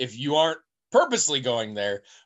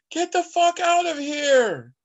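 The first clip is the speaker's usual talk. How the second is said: put-on high, slow, heavy Greek accent from far off; 4 dB louder, slower than usual. Unseen soldier warns the player off the camp, in a heavy Greek accent. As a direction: imitate a Greek soldier's accent shouting from a distance. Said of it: "a voice speaking English with a heavy Greek accent".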